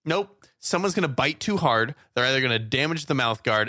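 ordinary talk, nothing marked

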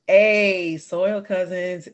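loud high "Hey", then a slow drawn-out "Soil Cousins"; excited show greeting. Acted. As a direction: call out to the listeners like a radio host. Host opens the show greeting.

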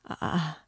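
short uneasy sigh; a slight troubled sigh. A narrator's reading. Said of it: "he signed towards her uneasily".

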